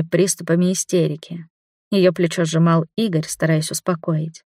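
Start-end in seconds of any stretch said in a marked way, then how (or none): none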